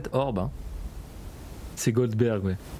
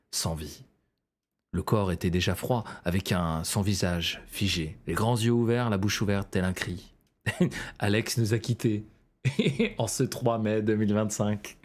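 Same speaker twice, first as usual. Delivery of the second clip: low, grave narrator voice, barely holding laughter; documentary voice-over; 4 semitones lower than usual. Shown as a demonstration. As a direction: somber mock documentary narration. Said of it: "petite voix off".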